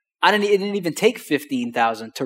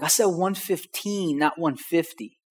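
slow, drawn-out "fifteen", set against "fifty"; emphatic correction; 3 semitones higher, 5 dB quieter, slower than usual. Retold or imitated. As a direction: stretch the end of "fifteen" to make it unmistakable. Correcting a misheard offer.

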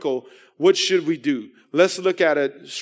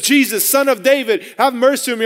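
light shout; 5 semitones higher, 3 dB louder than usual. Retold or imitated. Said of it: "as he shouts it".

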